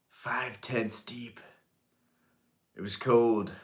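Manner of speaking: playfully grave, with long pauses; mock-solemn reminiscence. Mock-solemn reminiscence of waiting in line.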